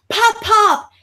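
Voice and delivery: put-on high, loud little girl's call; toddler calling out. Daughter spotting her grandpa at Walmart, high excited call. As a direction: squeal it like a toddler running to grandpa. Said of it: "She's like".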